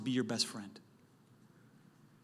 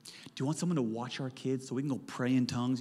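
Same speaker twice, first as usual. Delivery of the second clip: cheesy pickup line; 3 semitones lower, 6 dB quieter than usual. Pretend. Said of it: "Here's a pickup line".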